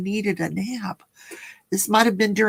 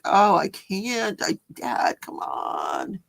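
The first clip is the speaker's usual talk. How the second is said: mock whining plea; slower than usual. Replays pleading with dad at church.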